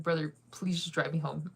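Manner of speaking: laughing through an exasperated plea. Retold or imitated. Laughing as she begs her date to drive her home. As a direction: beg him through a laugh to just take you home.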